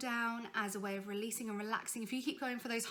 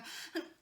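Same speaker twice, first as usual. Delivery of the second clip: tense gasp; 4 dB quieter than usual. Shown as a demonstration. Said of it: "be careful you don't go".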